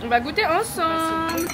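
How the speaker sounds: barely opening the mouth, sore jaw; after wisdom teeth. Real, not acted. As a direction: talk with a stiff, aching jaw. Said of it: "J'ai tellement mal aux dents". (après les dents de sagesse, bouche à peine ouverte)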